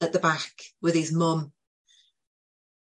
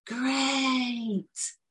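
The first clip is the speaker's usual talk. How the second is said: tearful praise; 6 semitones higher, 4 dB quieter than usual. Real, not acted. Teller praising the boy, moved.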